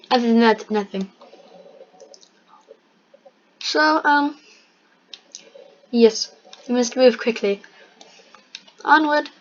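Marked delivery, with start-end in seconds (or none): 3.6-9.3 mock British accent. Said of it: "now I'm onto a British accent".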